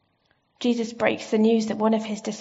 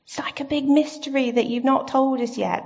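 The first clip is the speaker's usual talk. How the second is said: puzzled disciples; 4 semitones higher than usual. Retold or imitated. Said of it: "And they're like".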